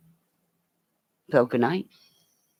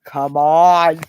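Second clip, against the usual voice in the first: voicing the dog; 3 semitones higher, 5 dB louder, slower than usual. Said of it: "He's going".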